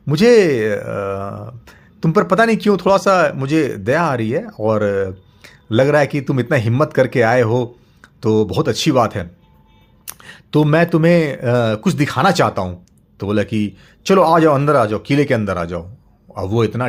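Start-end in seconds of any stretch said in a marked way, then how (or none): 0.1-12.9 softened monster. Acted. 14.1-15.8 monster inviting. Acted.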